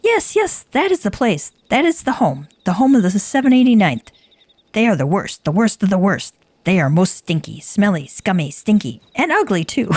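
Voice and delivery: high, eager kobold voice; a kobold gleefully insulting the rival band. Acted. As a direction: squeak out the insults with glee.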